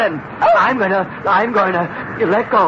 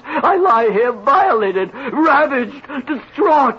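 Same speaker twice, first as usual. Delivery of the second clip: hammed-up anguish; 4 semitones higher than usual. Melodramatic self-pity.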